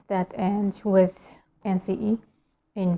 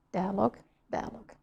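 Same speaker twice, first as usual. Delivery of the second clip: American pronunciation; 8 dB quieter than usual. Shown as a demonstration. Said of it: "but in American".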